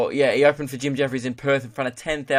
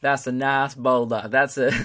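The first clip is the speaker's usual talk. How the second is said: lightly put-on cartoon animal voice; Donkey from Shrek. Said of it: "could you imagine Donkey from Shrek".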